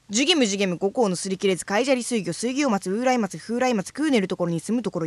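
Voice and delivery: rattled off in a single breath; all in one breath. Shown as a demonstration. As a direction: read straight through without pausing for air. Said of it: "一息で。".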